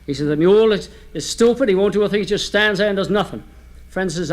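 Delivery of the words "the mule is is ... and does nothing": mock exasperation, louder at first, easing off; acted fed-up grumbling; disgusted. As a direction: complain about it in higher-pitched disgust. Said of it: "Finally, in third disgust".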